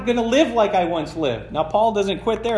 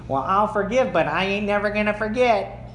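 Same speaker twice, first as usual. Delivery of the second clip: grudging forgiver. Retold or imitated. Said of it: "You say it like that".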